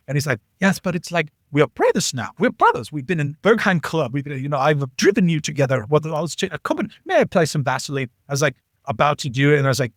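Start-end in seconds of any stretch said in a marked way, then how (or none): 0.6-8.1 lightly imitated German buddy, pleading; German accent. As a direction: coax in a mild put-on German accent. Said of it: "Still working on my German accent".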